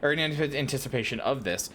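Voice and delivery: lightly voiced leader briefing a recruit; formal commander. Lewin asking an adventurer to handle cultists, lightly acted formal briefing. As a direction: read it as a measured, slightly theatrical officer. Reads game character Lewin's dialogue.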